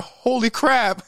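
drawn out in disbelief; stunned holy crap. Retold or imitated. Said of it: "I'm just like".

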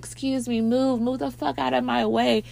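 high-pitched mock annoyance; acted irritation without raising volume; pissed off. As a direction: imitate a woman pushing through a crowd. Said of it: "She gets pissed off".

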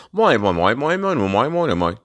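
mock British gibberish, pitch bouncing up and down; finto accento britannico. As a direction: babble a mocking British-accent noise. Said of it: "They love that British accent".

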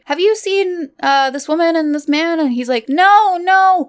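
mock frantic voice. Friend retelling a movie rescue, high mock-frantic voice. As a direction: play up the frantic calls. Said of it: "and she's like".

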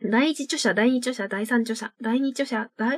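tongue twister rattled off, then breaking off; quick practice run. Shown as a demonstration. Host practising a listener's tongue twister, quick recitation. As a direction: rehearse the tricky titles quickly and lose the order. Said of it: "練習していい？".

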